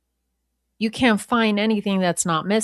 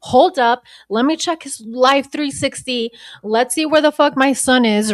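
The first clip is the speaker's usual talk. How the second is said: higher, panicked mock mom voice; frantic mom impression; 5 semitones higher than usual. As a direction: play the frantic mother checking the phone app. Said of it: "Christina's like".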